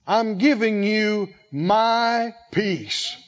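slow, gentle giving of peace; the Master slowly offering Keith his peace, tender; tender voice of Jesus. Retold or imitated. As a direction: lay the words down slowly like a gift. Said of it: "like Jesus said to Keith".

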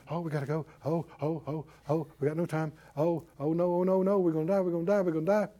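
hushed, hammed-up panicky whimper; mock panic. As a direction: play the frightened doubter, half-joking. Doubter panics, acted out.

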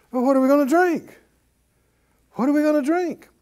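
usual speaking voice

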